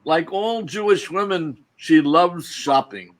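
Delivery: deliberate poetry reading, slightly lifted; poem recitation. Acted. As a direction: recite it to an audience, pausing between phrases. Reads his poem aloud.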